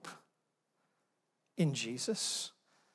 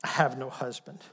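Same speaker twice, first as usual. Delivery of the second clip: ashamed murmur; 4 semitones lower, 3 dB quieter than usual. Acted. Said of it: "she drops her head".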